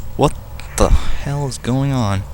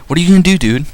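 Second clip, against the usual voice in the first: alarmed protest; 6 semitones higher, 3 dB louder, faster than usual. Pretend. Voicing Link being robbed.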